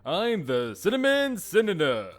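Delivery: excited intro. Real, not acted. Energetic video intro greeting.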